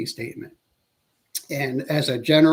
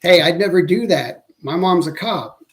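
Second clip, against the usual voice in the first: suspect's explanatory denial; 3 semitones higher, 4 dB louder than usual. Retold or imitated. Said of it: "You know, they say".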